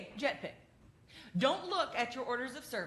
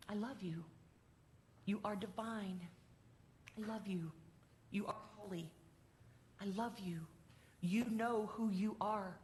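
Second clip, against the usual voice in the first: tender blessing. Retold or imitated. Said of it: "Here are her words".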